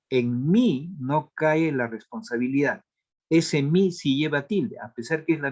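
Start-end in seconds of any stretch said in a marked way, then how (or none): 0.1-1.0 "en mí" with mí drawn out and lifted in pitch; stress on mí. Shown as a demonstration. Teacher contrasts pronoun with adjective, stressed "mí". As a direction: lean hard on "mí". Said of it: "si yo digo en otra expresión".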